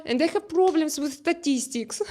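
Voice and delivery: breaking into real laughter; laughing. Real, not acted. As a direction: say it while starting to laugh. Laughs at her own slip.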